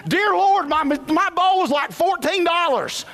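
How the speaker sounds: high, loud, hammed-up disbelief; squealing mock horror at the price; mock shock. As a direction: play up the outrage at the bill for laughs. Retold shock at the bill.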